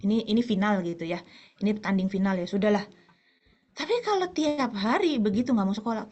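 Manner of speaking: ordinary talk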